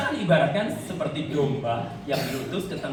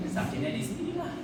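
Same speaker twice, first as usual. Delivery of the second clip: mock pained; 12 semitones higher, 8 dB quieter than usual. Joking punchline with laugh.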